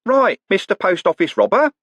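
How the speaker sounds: high, loud cheery shout; cheery bellow. Acted. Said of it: "a cheery voice bellowed".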